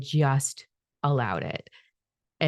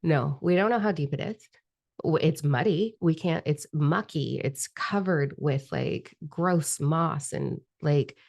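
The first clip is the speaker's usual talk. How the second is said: ego refusing; slower than usual. Retold or imitated. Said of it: "And my ego went".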